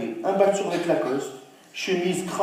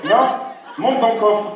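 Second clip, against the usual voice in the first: loud, higher shout at her; urging shout; 6 semitones higher, 5 dB louder than usual. Acted. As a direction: hurry her into the car. Crie à Halima de monter. (crie à Halima de monter)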